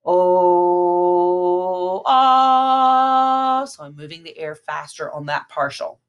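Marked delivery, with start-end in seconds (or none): 0.0-3.6 rising from round "Oh" to open "ah". Shown as a demonstration. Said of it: "speed up the air when I go for the G".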